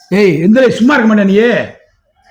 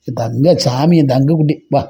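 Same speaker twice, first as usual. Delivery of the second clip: tender coaxing; 4 semitones lower, slower than usual. Real, not acted. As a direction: coax a little one tenderly. Parent coaxing a tearful child.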